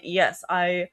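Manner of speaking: measured, word-by-word robot talk; robotic. Retold or imitated. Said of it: "he is talking like a robot".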